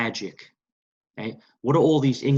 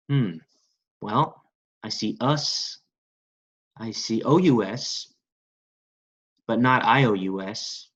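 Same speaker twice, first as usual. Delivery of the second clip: ordinary talk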